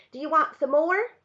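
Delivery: put-on proud small boy, rising question; eager little boy. A narrator's reading. Boy eagerly offers twigs.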